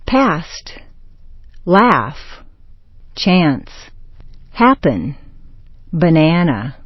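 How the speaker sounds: "Past", "Laugh", "Chance", "Happen", "Banana" with a bleated A; short A vowel. Shown as a demonstration. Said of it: "say ah like a baby goat".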